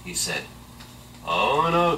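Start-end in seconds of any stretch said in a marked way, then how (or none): 1.3-2.0 high, loud frightened cry. Acted. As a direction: yelp it in alarm. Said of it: "cried the little pig".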